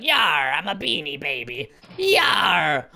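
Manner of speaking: low, drawn-out pirate voice; pirate toy. Acted. Gamer imitating his old pirate Beanie toy, pirate voice. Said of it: "there was a pirate one too".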